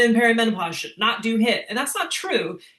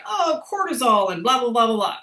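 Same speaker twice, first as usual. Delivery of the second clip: dismissive, higher and louder parody of social media talk; mocking social media; 4 semitones higher, 5 dB louder than usual. Coach mocking social media posts about cortisol, dismissive. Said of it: "you will see on social media".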